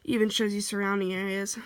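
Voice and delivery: talking with short, shallow breaths; audibly breathy, short of air; shallow breathing. Real, not acted. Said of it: "I'm so sorry about my breathing".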